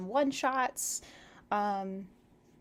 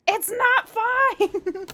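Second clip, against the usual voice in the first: high, loud, drawn-out cry of protest; outraged protest; 10 semitones higher, 6 dB louder, much slower than usual. Real, not acted. Reader objecting to the story's last line, slow loud outcry. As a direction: stretch every word out in disbelief.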